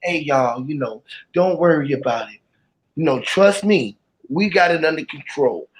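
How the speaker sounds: calm everyone down like an official on TV; calm reassurance. Retold or imitated. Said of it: "the way that he doing it now though".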